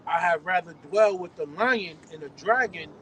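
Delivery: scripture reading. Acted. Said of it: "this Ecclesiastes twenty-five verse sixteen".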